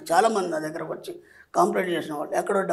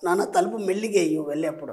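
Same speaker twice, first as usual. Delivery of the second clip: gentle parent; 3 semitones lower than usual. Shown as a demonstration. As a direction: coax the kid kindly. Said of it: "దాన్నే ఇంకో రకంగా చెప్పొచ్చు". (పిల్లాడికి మెల్లిగా ప్రేమగా చెప్పడం)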